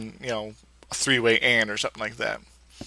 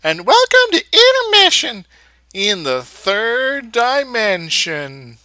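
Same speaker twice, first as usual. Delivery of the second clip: high, loud, drawn-out show opening; show announcer intro; 9 semitones higher, 7 dB louder, slower than usual. Pretend. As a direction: announce it grandly, stretching the words. Grand opening of the episode.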